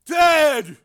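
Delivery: high, loud burst; frenzied shout. A narrator's reading. Crazed brother to Frank, frenzied shout. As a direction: shout it like a madman. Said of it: "he shouted".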